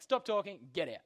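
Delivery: a light stern teacher-like order; stern command. Retold or imitated. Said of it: "He's just like".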